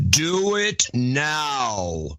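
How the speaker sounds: very slow echoing demon command; demonic layered voice. Acted. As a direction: drag it out like a demon. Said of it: "Adam in demon voice".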